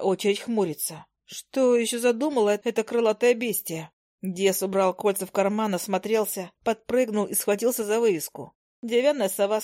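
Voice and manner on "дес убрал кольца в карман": ordinary delivery, nothing marked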